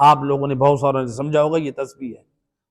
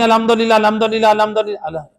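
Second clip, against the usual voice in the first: rushed mumble; 5 semitones higher than usual. Shown as a demonstration. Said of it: "کیا پڑھتے ہیں؟".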